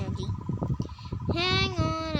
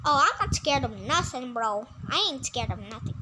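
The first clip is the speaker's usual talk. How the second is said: false bravado; 5 semitones lower than usual. Acted. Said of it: "I'm freaking out, bro!".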